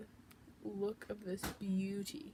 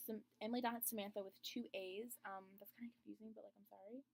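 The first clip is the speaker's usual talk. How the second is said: whispered, much softer; 9 dB quieter than usual. Real, not acted. Vlogger giving viewers her new Instagram, soft whisper.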